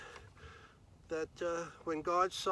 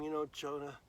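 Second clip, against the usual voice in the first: reasoning God; 2 semitones higher than usual. Acted. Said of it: "God said to him".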